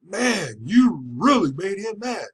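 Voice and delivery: lightly voiced bailiff. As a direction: tell him like a wary bailiff. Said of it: "the bailiff is telling me".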